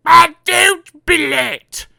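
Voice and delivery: high, loud, slow bossy shout. Acted. Miss Bossy shouting down the phone at him, high and loud. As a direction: bark the order down the phone. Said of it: "she shouted down the phone".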